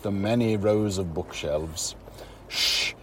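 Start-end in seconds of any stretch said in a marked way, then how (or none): 2.5-2.9 soft hushed shush, lowered voice; 쉿 하며 낮게 속삭이는 목소리; librarian shushing whisper. Acted. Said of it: "he whispered".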